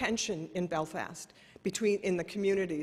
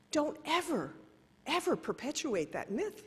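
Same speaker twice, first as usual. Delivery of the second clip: stern rebuke; 7 semitones higher than usual. Retold or imitated. Tutu rebukes Donna firmly.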